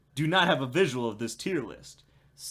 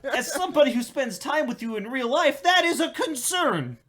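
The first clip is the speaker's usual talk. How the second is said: high, laughing disbelief; 10 semitones higher, 5 dB louder than usual. Real, not acted. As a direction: laugh through the words. Laughing at friend's remark.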